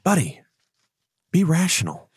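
a goody-goody angel pleading; angel on the shoulder. Retold or imitated. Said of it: "the angel's on the other side saying".

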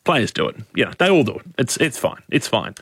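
lightly mimicked casual shrug-off; offhand dismissal. Host voicing people excusing players' drug use, offhand. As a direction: toss it off softly, as if it's nothing. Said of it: "it's kind of just thrown around".

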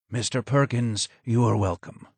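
a low, hoarse, quiet greeting from the shadows. Acted. Broken old advisor greets Mister Perkins, low and hoarse. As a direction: greet him from the dark in a hoarse voice. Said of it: "was low and hoarse".

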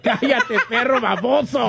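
scolding line broken by laughter; laughing. Retold or imitated. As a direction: try to scold but crack up. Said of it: "la esposa va a decir".

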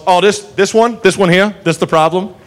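lightly voiced folksy lawman; Andy Griffith. Cop asking about the crazy lady, folksy. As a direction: ask with mild, unbothered amusement. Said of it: "this Andy Griffith, circa Andy Griffith T V show".

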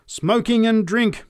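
slow, high, loud lament; preacher crying out. A narrator's reading. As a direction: draw out the condemnation to a crowd. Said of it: "cried the preacher".

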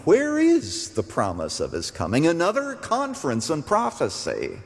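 imitating a scoffing doubter, pitch lifting into the second question; mock skeptic. Preacher voices skeptics doubting the promised coming, mildly mocking. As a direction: voice a skeptic's mild derision. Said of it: "So you skeptics out there".

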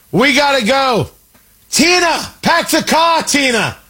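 put-on light Boston accent, panicky leftist; half-hearted Boston panic, rising to a shout. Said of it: "dipped into a Boston accent there".

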